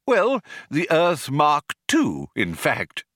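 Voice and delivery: put-on slow, cheerful old craftsman. A narrator's reading. Old planet-builder announcing the new Earth, cheerful. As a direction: cheerfully put him right, stretching the words. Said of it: "said Slartibartfast cheerfully".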